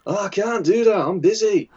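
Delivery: high-pitched mock refusal; put-on high voice, playfully fobbing someone off; hammed-up, squeaky busy-colleague excuse; Ian Fryer. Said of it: "That's my Ian Fryer impression".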